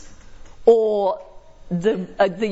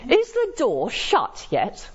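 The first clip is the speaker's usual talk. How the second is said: slow, drawn-out mock impatience; sarcastic tone; 4 semitones higher, slower than usual. Shown as a demonstration. Lecturer demos sarcasm to students, slow and sarcastic. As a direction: lay on the sarcasm, slowly. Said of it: "I'm being sarcastic".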